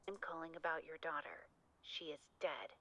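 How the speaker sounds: filtered like a call on a telephone; tinny talking telephone. Acted. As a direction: voice through a phone line. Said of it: "that one, maybe?".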